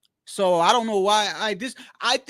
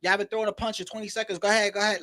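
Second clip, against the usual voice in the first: mock ref; 4 dB quieter, faster than usual. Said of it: "take a stopwatch and go".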